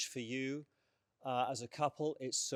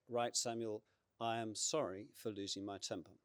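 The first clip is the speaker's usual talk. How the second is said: humble apology; 2 semitones lower, 5 dB quieter than usual. Retold or imitated. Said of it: "I knew how I had to begin".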